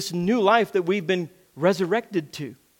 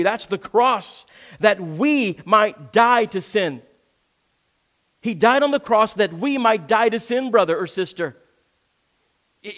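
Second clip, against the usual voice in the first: preaching at full force; 4 semitones higher than usual. Acted. Pastor urging brothers and sisters, fervent preaching. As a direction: build the sermon toward the cross.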